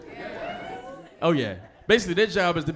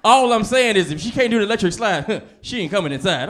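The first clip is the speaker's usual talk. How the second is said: mom's rhyming rule; 3 semitones higher, 5 dB louder than usual. Retold or imitated. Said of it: "I'm like".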